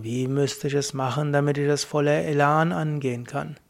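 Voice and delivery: low voice. Shown as a demonstration. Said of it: "in einer tieferen Stimme kannst du dich fragen".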